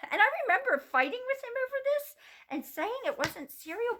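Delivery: high, loud, laughing retelling; laughing disbelief. Real, not acted. Mom telling viewers about her cereal fight, laughing. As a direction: tell it amused at herself. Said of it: "laughing retelling".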